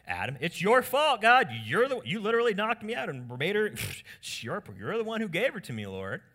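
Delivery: high, loud, rushed mock protest; hammed-up accusing Adam; indignant blame. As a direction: pin it on someone else, loudly. Adam blames God for Eve.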